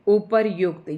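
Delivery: उपर्युक्त said as u-par-yukt, the r sounded before y; teacher's clear demo of उपर्युक्त; careful pronunciation. Shown as a demonstration. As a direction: stress the r cluster in उपर्युक्त. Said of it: "इसको हम उच्चारित करेंगे".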